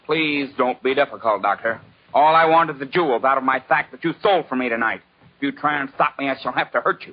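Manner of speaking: a thick lisp on every s; menacing, but the s sounds slur into a lisp. Acted. Crook threatens the doctor with a lisp. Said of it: "Why do you talk so funny? You got a cold like me?".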